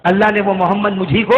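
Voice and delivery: revelation declaimed with rising end; projected revelation. Acted. Preacher repeating the Prophet's reveal, projected. Same reveal cried out louder.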